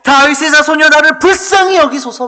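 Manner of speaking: high, impassioned shout for mercy; desperate, full-voiced acted plea. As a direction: cry out over those hushing you. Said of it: "더 크게 소리질러서".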